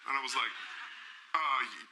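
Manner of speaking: a hint of a gentle, high idol on the phone; a famous singer. Actor imitating a famous singer gently praising him on phone. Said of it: "And he goes".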